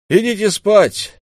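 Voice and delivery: high, loud, slow command; Хатуру calling out to the wolves, loud and high. A narrator's reading. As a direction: send the guards off with a shout. Хатуру calls to the guards.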